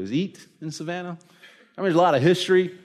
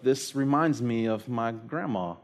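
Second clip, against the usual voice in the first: wife's tearful line; 4 semitones lower, 6 dB quieter than usual. Retold or imitated. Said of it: "she's like".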